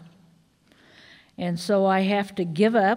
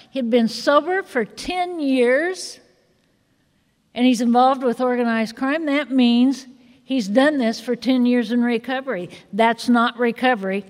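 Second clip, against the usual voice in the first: indignant; 3 semitones higher, 4 dB louder than usual. Retold or imitated. A wife reliving fury at her sober husband, raised and loud. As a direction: pitch climbs as she relives the fury.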